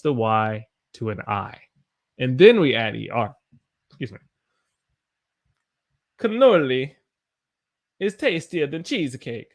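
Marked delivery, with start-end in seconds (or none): 6.2-9.5 lilting sing-song read; odd playful reading. Real, not acted. Teacher reading a chat line in a playful lilt. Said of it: "I don't know why I said it like that".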